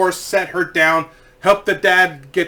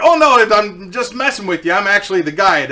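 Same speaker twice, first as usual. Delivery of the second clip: hasty backpedalling; 3 semitones higher, 4 dB louder than usual. Retold or imitated. Guide admits joke to panicked riders, hasty reassurance. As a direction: hurry to explain the joke.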